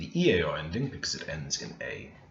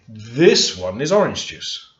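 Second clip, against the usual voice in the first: "orange" punched louder and slower; stress on orange; 5 dB louder than usual. Shown as a demonstration. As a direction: lean hard on "orange". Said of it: "heavily emphasize the next one".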